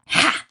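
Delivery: short scornful ha; sneering laugh. Acted. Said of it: "Wheat sneered".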